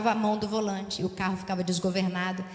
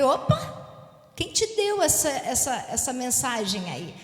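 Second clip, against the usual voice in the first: startled mother; slower than usual. Retold or imitated.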